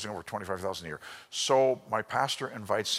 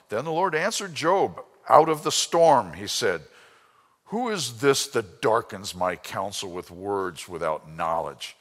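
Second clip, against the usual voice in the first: booming God; 8 dB louder than usual. Acted. Voicing God from the storm.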